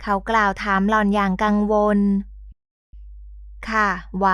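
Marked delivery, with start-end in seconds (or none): 2.8-4.3 faint, tired reply with no strength left; barely able to answer, softly; weak and drained. A narrator's reading. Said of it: "เพียงแต่ไม่มีแรง".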